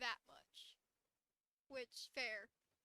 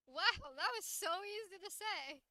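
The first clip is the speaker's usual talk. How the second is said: higher, louder mock amazement; mock relief; 6 semitones higher, 8 dB louder than usual. Streamer mimicking the girl's relief after the breakup, hammed-up and high. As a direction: gush with exaggerated relief. Voicing character's relieved line.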